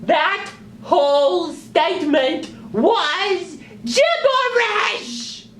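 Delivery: high, slow, laughing puppet outburst; squeaky puppet, fed up and laughing; exasperated sock puppet. Acted.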